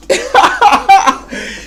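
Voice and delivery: cackling at the slap replay; high cackling laugh. Real, not acted.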